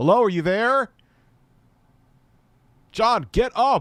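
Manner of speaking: very high-pitched, loud voice. Showing how the mom's line should sound: like actually trying to wake someone. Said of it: "sound like you're actually trying to wake".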